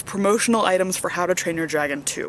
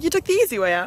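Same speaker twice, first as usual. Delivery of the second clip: mocking; 7 semitones higher, faster than usual. Mocking repeat of classmate.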